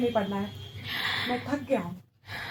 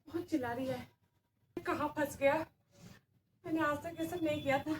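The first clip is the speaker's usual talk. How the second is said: hushed muttering; 17 dB quieter than usual. Acted. Captor muttering to himself.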